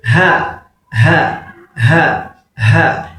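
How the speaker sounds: "Ha" drilled with an airy h; teacher's "Ha" for students to copy; model pronunciation. Shown as a demonstration. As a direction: repeat each "Ha" separately, breath first. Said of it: "Try it".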